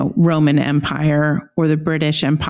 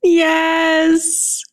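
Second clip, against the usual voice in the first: excited yes; 10 semitones higher than usual. Real, not acted. Cohost reacts to land acknowledgement.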